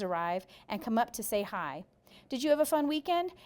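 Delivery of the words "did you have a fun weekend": put-on loud, higher, eager boy's voice. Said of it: "in that loud voice of his".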